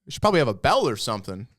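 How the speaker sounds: lightly voiced old customer complaining; casual remark from a man waiting in line; old guy's grumble. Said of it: "he starts off, he's like".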